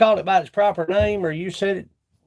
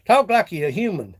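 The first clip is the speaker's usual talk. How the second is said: laughing; 2 semitones higher than usual. Real, not acted.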